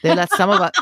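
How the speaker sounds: put-on Southern accent cracking into laughter. A narrator's reading. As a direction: start in Southern accent, then lose it laughing. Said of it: "in his best Southern voice".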